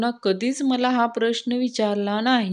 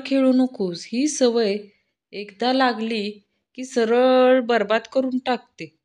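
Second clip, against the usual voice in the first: बाबा बंड्याला कळकळीने, ठामपणे समजावतात; थोडा मोठा, उपदेश करणारा वडिलांचा आवाज; stern father lecturing. Acted. Father lectures son on gambling. (वडील मुलाला जुगाराबद्दल उपदेश करतात, कडक सुरात)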